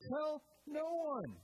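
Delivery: Jesus gravely charging the man to keep silent; stern charge. Retold or imitated. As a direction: lay down the order word by word.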